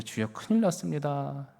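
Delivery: quietly begging the Lord for wisdom; inner prayer. Retold or imitated. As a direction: pray it under your breath, worried. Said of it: "그때 속으로".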